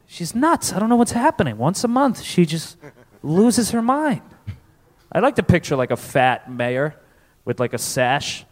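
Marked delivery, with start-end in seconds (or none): 0.1-4.2 higher, baffled complaint; acted fed-up townsman; exasperated husband. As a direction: vent in bewilderment, pitched up. Townsman complaining about his wife.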